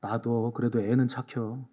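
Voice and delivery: slow, a little soft Chungcheong sigh; Chungcheong neighbour. Retold or imitated. Pastor voicing Chungcheong neighbours about a useless youth, slow dialect. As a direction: say it slowly like a resigned neighbour. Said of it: "충청도 사람들이 뭐라 그러는지".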